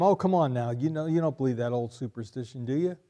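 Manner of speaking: a light scoffing brush-off; mocking dismissal. A preacher mimicking a dismissive Jesus for the congregation, lightly scoffing. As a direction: wave the belief away. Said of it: "He didn't say to them".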